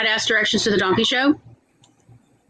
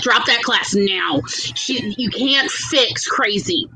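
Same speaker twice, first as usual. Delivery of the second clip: slow, dropping to a whisper; hushed advice; much slower than usual. Retold or imitated. Advising Tom to quit the class, slow and whispered. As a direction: slowly confide the punchline in a whisper. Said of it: "And I'm like".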